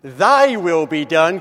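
Thy punched, bold rising battle cry. Shown as a demonstration. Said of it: "carries more the hue of a battle cry".

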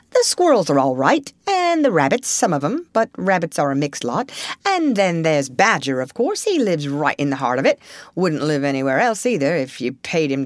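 lightly voiced Rat, weighing each one up; lively and emphatic, fond at the end; judicious Rat. Rat describes the wood's inhabitants to Mole, lightly voiced. Rat sizes up wood folk.

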